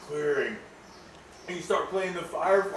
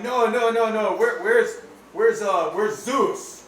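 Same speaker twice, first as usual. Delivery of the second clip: panicked search; 5 semitones higher, 5 dB louder, slower than usual. Acted. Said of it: "and you're like".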